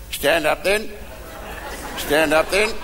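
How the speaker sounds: lightly voiced punch-drunk sergeant major; sergeant major's tic. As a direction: imitate a sergeant's automatic verbal tic, rising at the end. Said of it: "came a verbal tick".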